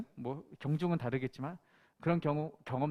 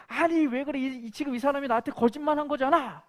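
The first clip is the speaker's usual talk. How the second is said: higher, louder indignant protest; retold angry outburst; 8 semitones higher, 4 dB louder than usual. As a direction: insist you were lied to, heated. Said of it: "더욱 붕괴를 했다는 거예요". (높고 큰 소리로 억울하게 화내며)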